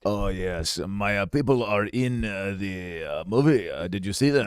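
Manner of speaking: answering about Star Wars in a bad Asian accent. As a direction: drawl it out in a hammed-up Asian accent. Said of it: "it's like a bad Asian accent".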